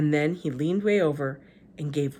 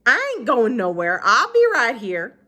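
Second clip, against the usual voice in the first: put-on high, slow gentle old woman; Gloria Dump voice; 6 semitones higher, 8 dB louder than usual. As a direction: speak up high and unhurried.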